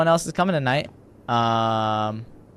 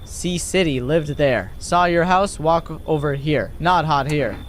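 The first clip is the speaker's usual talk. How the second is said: halting, word-by-word delivery; lightly voiced blunt stranger; slow, economical answers; terse foreign visitor; slower than usual.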